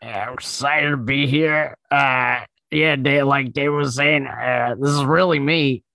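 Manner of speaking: light Pete Davidson voice; a hint of Pete Davidson; Pete Davidson impression. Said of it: "Pete Davidson's here".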